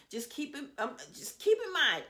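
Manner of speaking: hiccuping mid phrase; small hiccup breaks in speech. Real, not acted. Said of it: "I have the hiccups".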